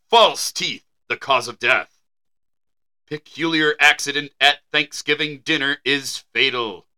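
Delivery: measured headline reading; news read. Acted. Co-host introducing a 1912 article, measured news read. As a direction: announce it like an old newspaper story.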